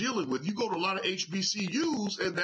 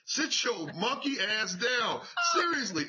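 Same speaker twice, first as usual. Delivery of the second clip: getting mad. Real, not acted. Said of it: "I'm getting mad".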